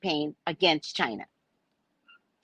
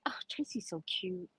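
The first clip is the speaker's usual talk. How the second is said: imitating listeners. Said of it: "I tell it in such a way where it's like".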